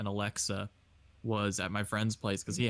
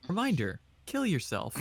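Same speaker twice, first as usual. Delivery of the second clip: Alexa; 5 semitones higher than usual. Pretend. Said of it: "your Alexa just goes".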